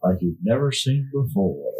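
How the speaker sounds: mock trailer announcer, lightly done; disclaimer voice. Hosts joking about good and evil, disclaimer voice. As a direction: tease it like a movie promo. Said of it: "that was a disclaimer voice right there".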